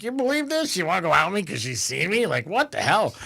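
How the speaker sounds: mild indignant griping. Retold or imitated. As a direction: complain to a brother in mock disbelief. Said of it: "bitching, like".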